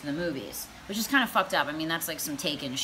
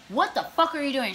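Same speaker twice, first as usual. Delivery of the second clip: mild mock scream; 6 semitones higher than usual. Girl to date after a sloppy kiss, mock screamed protest. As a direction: retell her shocked protest in a raised pitch. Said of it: "she was screaming".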